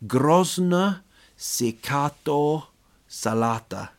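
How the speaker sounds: Grozna sekato said slowly and high; slow, careful Bulgarian; Bulgarian phrase. Shown as a demonstration. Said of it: "I like the Bulgarian one".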